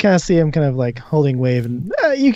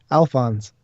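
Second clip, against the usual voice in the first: measured, phrase-by-phrase narration; game master's scene setting. Acted. Game master describes ghostly tentacles calming a player, measured narration. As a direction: describe the vision steadily, pausing between images.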